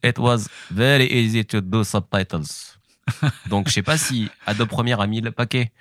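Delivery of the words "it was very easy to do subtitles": slow, higher, put-on Qatari accent in English; comedian's slow, higher caricature of a Qatari speaking English; mock Qatari accent. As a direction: sound like a Qatari character taking all the time in the world. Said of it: "j'incarnais un, un Qatari".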